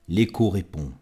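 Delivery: firm, full-voiced echo line; recited line at full voice; first echo call. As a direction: sound the echo out clearly.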